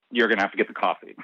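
"you're gonna have to get the coffee" run together fast, landing the point; pointed repeat. Retold or imitated.

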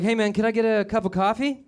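hammed-up coffee customer; mock customer voice. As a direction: ask for coffee like a dopey regular. Customer ordering Dunkin coffee.

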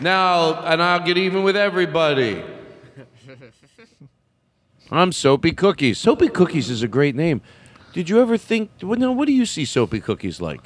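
lightly voiced brassy club comic; brash vaudeville comic. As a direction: work the room like a cheesy comic. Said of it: "I'm Soapy Cookies. I'll be here all week".

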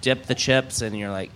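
put-on casting agent in a light Russian accent; bossy instructions, Russian accent. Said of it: "That's a Russian accent".

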